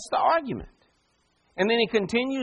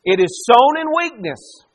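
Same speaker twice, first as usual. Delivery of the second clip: louder, pushing the congregation to answer; louder call for a response; 4 semitones higher, 6 dB louder than usual. Shown as a demonstration. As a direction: hit It is sown in weakness. harder. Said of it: "let's try this one more time".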